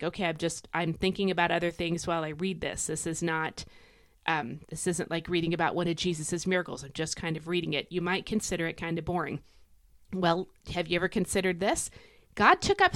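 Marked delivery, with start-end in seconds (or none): 0.0-7.9 bored reader. Acted. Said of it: "kinda boring if you're honest".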